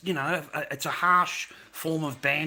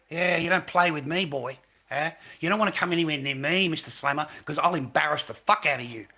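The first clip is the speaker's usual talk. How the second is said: shouting down a heckler, rising to Okay; retold angry rant; 4 dB louder than usual. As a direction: hammer every insult, louder at the end. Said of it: "that's what I said to you on live".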